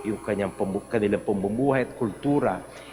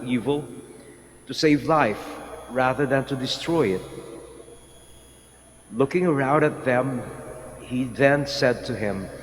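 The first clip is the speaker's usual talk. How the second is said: Gospel reading. Acted. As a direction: proclaim it like Scripture at Mass. Priest proclaims the Gospel reading.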